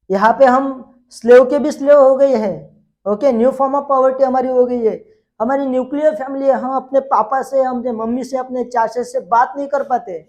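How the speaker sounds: hammed-up plea of worried common people; mock desperate complaint. People begging sociologist Comte for help, mildly desperate.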